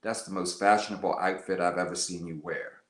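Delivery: low-pitched quoted compliment; imitating his low, understated voice. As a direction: drop low to quote him. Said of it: "in a very low voice".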